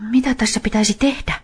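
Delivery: put-on high, unsure boy's voice; helpless boy. A narrator's reading. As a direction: Niko asking the dog what to do, high and unsure. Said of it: "Niko kysyi".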